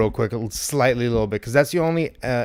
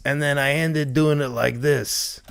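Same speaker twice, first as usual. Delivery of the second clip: Dawn. Shown as a demonstration. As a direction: ease into the closing take of a Brooklyn character. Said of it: "That's my best Dawn".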